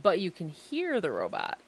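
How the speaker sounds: glitchy robot-like call audio; buzzy, glitchy audio like a robot; robotic call audio. Real, not acted. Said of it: "you still sound like a robot".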